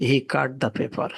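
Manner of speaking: very slow, word by word; slow example read. Shown as a demonstration. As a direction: read the ship line at a crawl for learners. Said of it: "example sentence read slowly". (ধীরে ধীরে পড়া উদাহরণ)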